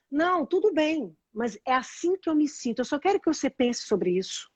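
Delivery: softening, gentle reply; calm reassurance. Acted. Speaker models her non-violent reply to Kika, calm.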